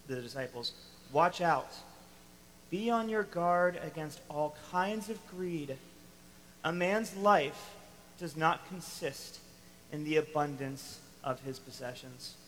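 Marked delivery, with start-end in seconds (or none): 1.1-12.4 solemn warning. Retold or imitated. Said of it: "He says".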